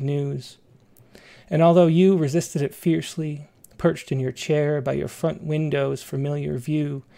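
measured, even poetry reading; poem reading. Acted. Reads a poem aloud.

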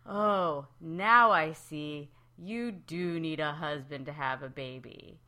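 slow, lightly voiced moral lesson; host closing the episode, lightly voiced; mock-solemn host. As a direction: deliver the moral slowly and knowingly. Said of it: "And then Jack Kay goes".

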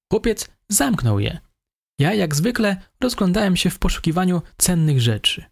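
the suspect. A narrator's reading. Suspect continues confession.

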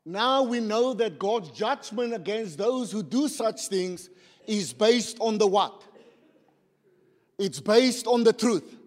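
slow, measured verse reading; emphatic scripture reading. Real, not acted. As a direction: read it out slowly, weighting key words. Reads scripture aloud to congregation.

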